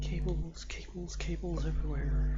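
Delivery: wheezy, with a cold; breathy cold-stricken wheeze. Real, not acted. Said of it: "if I sound a little wheezy again".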